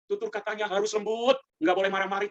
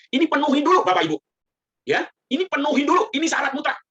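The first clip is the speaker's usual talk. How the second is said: high, loud preacher's demand; loud insistence; 7 semitones higher, 6 dB louder than usual. Real, not acted. Preacher urges the congregation to fulfil the conditions, loud. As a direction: hammer home that this comes first.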